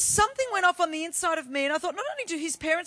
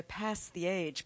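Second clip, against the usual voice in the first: flat American vowel in PAST; American accent; 7 semitones lower, 10 dB quieter, much slower than usual. Shown as a demonstration. Preacher mimicking how Americans read the verse, American accent. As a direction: say PAST with the short American A, as in cat. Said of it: "so Americans go".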